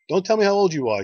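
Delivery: put-on high, loud squeaky old lady, urgent; little old lady voice. Old lady at the bus stop interrupting the birthday man, high and loud. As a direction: pitch it way up like an eager old lady stopping him. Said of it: "She says".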